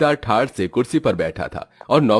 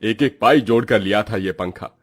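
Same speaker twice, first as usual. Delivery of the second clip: grumbling, mildly scolding father; put-upon head of the household; exasperated father. Acted. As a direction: complain wearily with lively emphasis. Father grumbles about broken fan.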